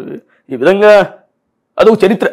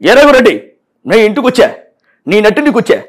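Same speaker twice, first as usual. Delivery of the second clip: punch dialogue impression. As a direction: bellow the film hero's threats. Mimic performs Balakrishna-style film dialogues.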